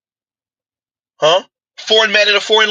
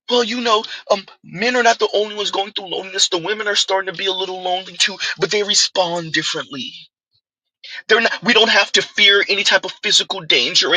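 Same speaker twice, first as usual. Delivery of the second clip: soft, prim lecturing tone; mocking academic voice; 4 dB quieter than usual. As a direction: imitate a prissy academic. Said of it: "academics lecturing".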